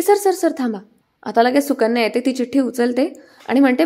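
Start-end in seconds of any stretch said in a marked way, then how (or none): 0.0-0.8 much higher, hurried "sir, sir, sir, stop"; panicked plea to the boss to wait; urgent calling out. Retold or imitated. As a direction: call out to stop him before he picks it up. Heroine urgently stops him.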